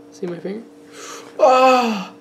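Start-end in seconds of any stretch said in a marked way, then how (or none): 1.4-2.1 high, loud cry of "ah"; mock scream. Showing the party finger trick, mock scream.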